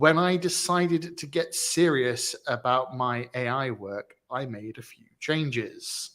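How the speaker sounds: slow, measured read-out of a post; reading aloud. Real, not acted. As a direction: read the post out slowly, word by word. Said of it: "That was me reading out the actual tweet".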